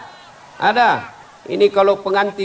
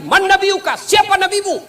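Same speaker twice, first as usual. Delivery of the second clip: high, loud, stern grave angel interrogating; questioning angel; 13 semitones higher, 4 dB louder than usual. Acted. Angel asks about the prophet. (suara malaikat kubur yang tinggi dan keras)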